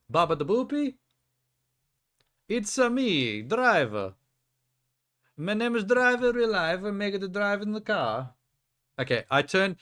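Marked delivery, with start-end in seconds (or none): 0.1-8.3 put-on Mario stereotype accent. Streamer mocking Adam Driver's casting, high cartoon Italian accent. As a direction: ham up a Mario-style Italian until it slides. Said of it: "I went from Italian Mario stereotype and I turned into Borat".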